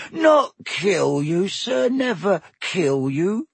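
high, slow, aghast elf squeak; shocked elf. Acted. Elf denying it to Harry, shocked and high. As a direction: recoil in horror at the idea.

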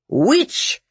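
high, ringing cry of alarm; shout. A narrator's reading. Bear shouting so that men could hear, alarm shout. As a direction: shout the accusation out to a crowd. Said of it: "shouted the bear in the voice".

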